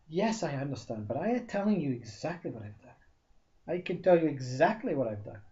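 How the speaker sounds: firm and loud, pressing the point; insistent. Acted. Applicant pressing the interviewer, firm and loud. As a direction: insist he is telling the truth.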